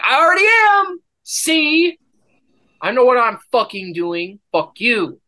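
high, loud indignant snap; indignant retort. Retold or imitated. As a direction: fire back high and offended.

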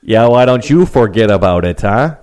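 Sopranos wiseguy voice; forget-about-it mob accent; New York mobster accent. Acted. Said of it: "talking like Tony Soprano and his crew".

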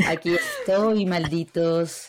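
very slow sensual villain line; sultry woman. Acted. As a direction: drag it out, seductive and wicked. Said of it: "Se escucha una voz sensual".

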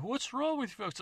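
put-on a greedy old codger eager for the carcass; old man. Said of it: "he's like".

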